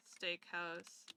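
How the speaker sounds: ordinary delivery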